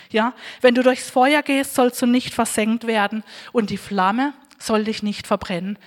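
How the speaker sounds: scripture reading. Acted. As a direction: read the promise as if handing it to the listener. Reads Isaiah 43 aloud. (feierliche Schriftlesung)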